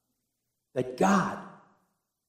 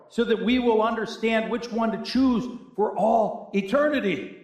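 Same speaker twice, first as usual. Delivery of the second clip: higher-pitched, earnest preaching; emphatic preaching; 7 semitones higher than usual. Real, not acted. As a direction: preach it with rising conviction.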